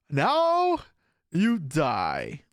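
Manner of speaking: hammy villain gloating at the kill; mock villain taunting the opponent; villain threat. Villain line at game win.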